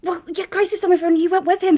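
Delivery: tipsy and accusing; drunk dialing. Acted. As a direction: slur a bit, accusing. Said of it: "Are you drunk dialing me".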